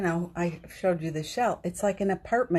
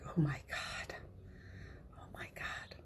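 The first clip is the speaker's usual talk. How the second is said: whispered oh my God, much softer; exasperated whisper; 4 semitones lower, 14 dB quieter than usual. Retold or imitated. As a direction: hiss it under your breath at the party. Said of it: "it's like".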